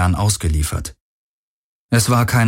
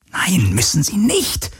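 slow, breathless urgent whisper; 10 semitones higher than usual. A narrator's reading. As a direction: hiss it close to her ear, pressing. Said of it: "flüsterte Garland drängend".

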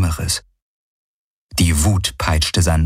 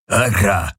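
belched. A narrator's reading. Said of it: "rülpste der Vierarm".

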